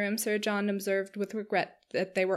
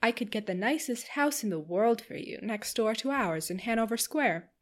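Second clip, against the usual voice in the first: chattering Missus Palmer. Acted. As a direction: bubble over like a giddy hostess. Narrator voices Missus Palmer.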